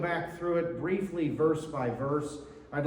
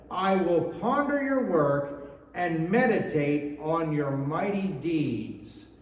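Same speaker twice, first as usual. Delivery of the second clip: raised, measured reading of the psalm; scripture reading; 3 semitones higher than usual. Acted. Pastor reads the psalm aloud.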